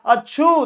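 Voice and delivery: a quick mock sneeze, achoo; sneeze sound. Shown as a demonstration. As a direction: fake a light sneeze for the class. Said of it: "ये बालक है ये छींक रहा है". (नकली छींक, अच्छू)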